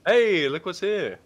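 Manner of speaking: slow, loud, high nerdy voice; drawn-out nerdy exclamation; nerd voice. Pretend. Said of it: "The nerd voice, actually".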